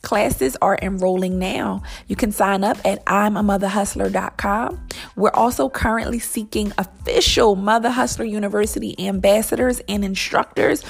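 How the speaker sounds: measured, clearly delivered promo read; sponsor ad read. Acted. Host invites mompreneurs to join Mother Hustler University, ad read. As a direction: pitch the program like a podcast sponsor spot.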